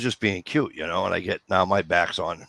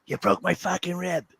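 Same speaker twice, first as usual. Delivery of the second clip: angry wife; 10 semitones higher than usual. Retold or imitated. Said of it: "And she goes".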